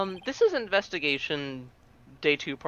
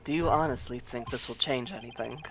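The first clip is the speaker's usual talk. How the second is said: haughty prosecutor; 4 dB quieter than usual. Acted. Voicing prosecutor character.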